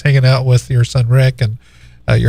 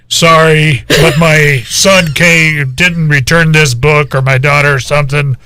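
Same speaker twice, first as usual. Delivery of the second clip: a booming voice trying to whisper, a touch louder; mock loud whisper. Big son in the library, a mild mock loud whisper. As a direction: imitate a big man failing to whisper. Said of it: "like, almost megaphone voice, real quiet".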